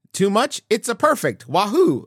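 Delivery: lightly imitated Mario-style Italian accent; bouncy cartoon Italian with a lilt; mock Italian accent. Giuseppe turns round to reassure Mario, mock Italian accent. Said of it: "Is my Italian accent too much?".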